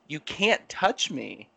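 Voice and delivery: slow, firm refusal at normal volume; firm warning. Retold or imitated. Telling the lady not to touch his arm, firm warning. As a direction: re-enact a measured warning, drawing it out. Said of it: "And I was like".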